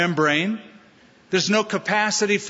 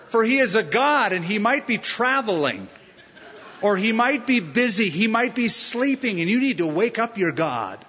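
mocking taunt; 5 semitones higher than usual. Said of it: "starts mocking them".

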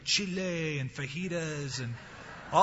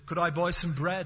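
bad English accent; 3 semitones higher than usual. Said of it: "I put on the English accent".

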